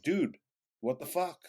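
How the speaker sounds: high-pitched retold indignation; indignant. Teller confronting coworker who leaked the secret, indignant. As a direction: confront a buddy in disbelief, pitch jumping up.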